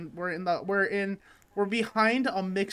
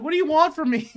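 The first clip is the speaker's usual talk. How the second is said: much higher and louder, half-mock exasperation; exasperated retort; 10 semitones higher, 9 dB louder than usual. Nineteen-year-old answering his mocking boss, mock-exasperated and loud. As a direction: throw up your hands at the boss. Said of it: "I was like".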